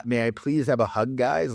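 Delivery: lightly voiced meek guy, mocking; mocking timid voice. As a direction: parody the pleading ask.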